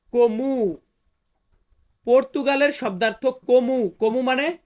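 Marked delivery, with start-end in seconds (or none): 0.1-0.8 কমু set apart from the Bengali; Portuguese word. Shown as a demonstration. Teacher models কমু for students, careful Portuguese. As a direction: say কমু as Portuguese como, KOH-moo, in a changed tone. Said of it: "Portuguese ভাষাতে বলবো".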